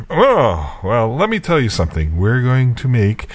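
a touch of a lilting dentist voice; dentist quote. Retold or imitated. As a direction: mimic the old dentist laying out the plan.

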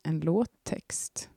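slow embarrassed whisper. Real, not acted. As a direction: whisper it shyly. Embarrassed admission.

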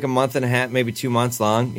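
ordinary talk, nothing marked

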